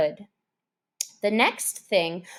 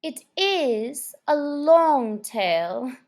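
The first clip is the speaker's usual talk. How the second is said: slow, higher mouse voice; lightly voiced mouse; 4 semitones higher than usual. A narrator's reading. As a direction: muse on it slowly like a small mouse.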